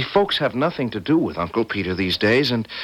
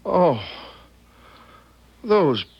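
slow, high lament; grieving; 8 semitones higher, much slower than usual. Acted. Boy weeps for the poor people just killed, grieving. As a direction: draw it out high, full of pity.

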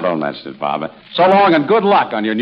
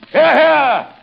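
high, hammed-up English old-school outburst; English father; 12 semitones higher, 3 dB louder, slower than usual. Shown as a demonstration. Host playing Lady Parkington's father discovering the lovers, high mock outrage. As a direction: cry out as an affronted English father. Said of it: "play the part of Lady Parkington's father".

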